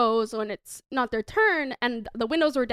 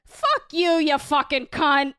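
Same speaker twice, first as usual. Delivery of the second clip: put-on Boston accent; slower than usual. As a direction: snap back a crude Boston-accent insult without missing a beat. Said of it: "You do a great Boston accent".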